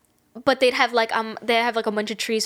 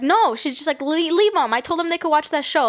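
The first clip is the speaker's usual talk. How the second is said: lightly voiced stern mother, raised pitch; tough mom; 4 semitones higher than usual. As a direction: imitate a mom laying down the law. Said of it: "like, tough on her".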